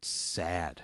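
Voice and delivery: slow, drawn-out sadness, trailing low and soft; mock sad. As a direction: let it sink into a soft, low, pitiful hush. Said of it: "feeling so sad".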